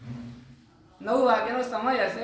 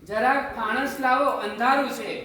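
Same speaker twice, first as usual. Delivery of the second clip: calling out; 4 semitones higher, 4 dB louder than usual. Retold or imitated. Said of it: "બૂમ પાડી".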